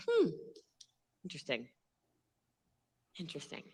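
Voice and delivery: low, very soft aside; mock intrigued musing. Recruiter privately rethinking her recruit, hushed low musing. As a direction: muse to yourself, hushed and low.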